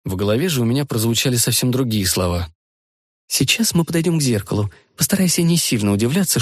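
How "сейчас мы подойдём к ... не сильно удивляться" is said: put-on young woman voice. Rita's inner voice.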